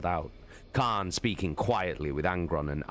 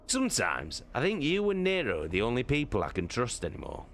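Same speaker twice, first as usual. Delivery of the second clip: higher, candid voice; confiding Torgadon; 6 semitones higher than usual. Acted. Torgadon confides in Loken that he trusts few, higher. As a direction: open up to a friend.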